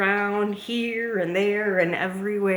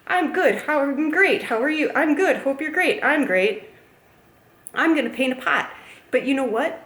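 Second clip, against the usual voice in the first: higher, louder upbeat vlogger quote; enthusiastic video host; 6 semitones higher, 5 dB louder than usual. Retold or imitated. Retelling how he greeted his video audience, bubbly and loud. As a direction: act out a bubbly video intro. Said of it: "but he said in this video".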